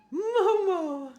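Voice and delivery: very high, loud pet call; high-pitched excited holler to a cat. Real, not acted. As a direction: squeal the name out loud, drawn long. Calling out to the cat.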